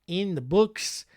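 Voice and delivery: hammed-up fake Australian accent, slipping now and then; put-on Aussie twang for a true-crime recap; bad Australian accent. Podcast host recapping a killer's fate in bad Australian accent. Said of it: "really difficult for me to keep the accent going".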